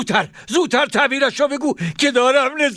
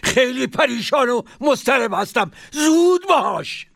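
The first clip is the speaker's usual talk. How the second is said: urgent, fretful pleading caliph; helpless, anxious plea. Acted. Caliph urging the dream interpreter, anxious and helpless. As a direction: rush him with a trembling plea. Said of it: "هارون با عجز و غصه گفت".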